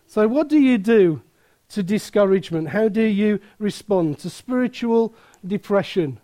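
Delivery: put-on light Midland accent preaching. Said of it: "Except I'll do it in a Midland accent".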